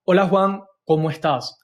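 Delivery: relaxed, natural greeting, not salesy; calm normal voice. Shown as a demonstration. Coach demoing the right call greeting, calm and natural. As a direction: speak like a normal person, down to earth. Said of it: "hablas grave, hablas como una persona normal".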